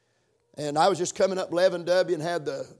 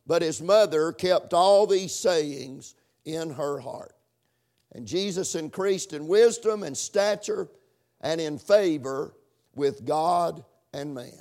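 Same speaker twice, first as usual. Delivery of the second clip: measured, emphatic Bible reading; scripture reading. Acted. Preacher reading scripture to the congregation, measured and emphatic. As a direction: read the verse out to the congregation.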